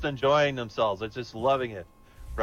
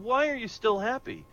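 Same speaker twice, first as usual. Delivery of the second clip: higher, mock-furious devil; 9 semitones higher than usual. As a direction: play the devil as a hammed-up angry demand. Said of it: "the devil's absolutely furious".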